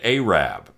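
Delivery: Arab rhymed with Ahab; a singer's pronunciation. Retold or imitated. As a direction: say Arab as AY-rab. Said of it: "that's how he would have said it".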